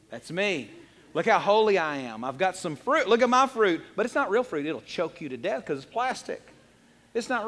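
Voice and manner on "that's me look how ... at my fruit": mock show-off. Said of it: "and go".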